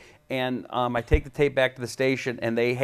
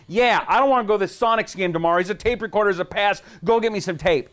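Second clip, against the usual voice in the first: louder, brusque annoyed boss; gruff newsman; 8 semitones higher, 4 dB louder than usual. Retold or imitated. Newsman dumping the game on the kid, brusque. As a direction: toss orders like a grumpy newsman.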